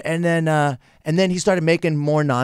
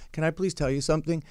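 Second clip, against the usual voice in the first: softer, extra-mellow polite ask; 7 dB quieter than usual. Retold or imitated. To a rude guy in the locker room, softly mellow. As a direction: keep it hushed and easy, no edge. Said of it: "Just this mellow".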